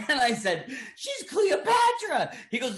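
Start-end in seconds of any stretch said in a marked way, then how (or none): 0.9-2.3 drawn-out announcement. Retold or imitated. Kid announcing Cleopatra to Burton.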